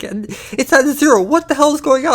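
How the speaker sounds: high, loud imitation of a baffled friend; hammed-up gamer freak-out; mock outraged yelling. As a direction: cry out in exaggerated disbelief. Mimics friend yelling about zero endurance.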